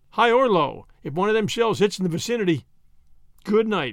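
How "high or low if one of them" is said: usual speaking voice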